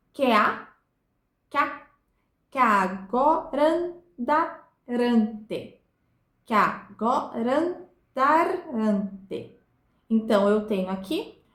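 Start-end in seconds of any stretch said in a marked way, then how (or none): 0.1-9.6 very slow syllables, "agorandarante" with the words fused; "que a" glided into one syllable; merged-vowel scansion. Shown as a demonstration. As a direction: count out "agorandarante" in separate beats, vowels joined across words. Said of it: "que se junta".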